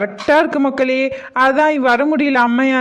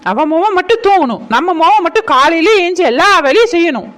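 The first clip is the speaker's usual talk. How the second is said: resentful grumble; 4 semitones higher, 3 dB louder than usual. Acted. Mother grumbling about lazy daughter.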